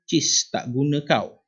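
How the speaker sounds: mildly scornful, drawn-out delivery; slow, mock-angry example. Shown as a demonstration. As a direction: say it slowly with demonstrated contempt. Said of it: "untuk menyatakan perasaan marah dan benci".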